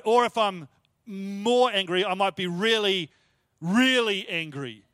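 slow, leaning on each "really"; stacked adverbs. Shown as a demonstration. Preacher demonstrating English adverbs, stressing each really. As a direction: pile on the "really"s. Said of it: "now I've got two adverbs".

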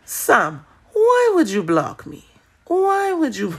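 mock pleading caller voice, high and laughing. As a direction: mimic him pleading, laughing at him. Imitating the caller who was blocked.

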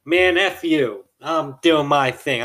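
slow, sneering refusal from a cocky pilot; mock rude pilot. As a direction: play the entitled guy brushing her off. Voices the defiant pilot's reply.

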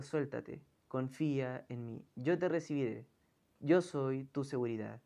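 a father quietly reassuring his son; gentle father. Acted. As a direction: soothe the boy into trusting you. Father calms frightened son.

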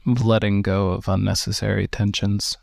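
calm, unhurried meditation guide with long pauses; slow, even-toned breathing instructions; guided meditation. Real, not acted. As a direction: guide them gently into relaxation, leaving space between phrases.

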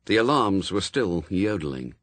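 plain reading voice

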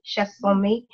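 Chasson-mi said as shah-SON-mee, Nigerian way; correct pronunciation. Shown as a demonstration. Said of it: "it's actually pronounced".

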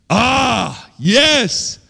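high, drawn-out exclamation; emphatic outburst. Acted. Preacher answers talk of anger at God, high emphatic outburst. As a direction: burst out with pitch thrown up. Reacts to feeling angry with God.

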